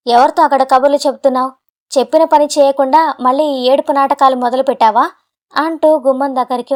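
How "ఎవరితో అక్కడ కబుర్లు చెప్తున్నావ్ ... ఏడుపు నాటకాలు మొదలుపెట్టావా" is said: irritated, quick opening bark; annoyed shout. Acted. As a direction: snap at her in mild irritation. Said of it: "విసుగ్గా అరుస్తూ". (విసుగ్గా అరుపు)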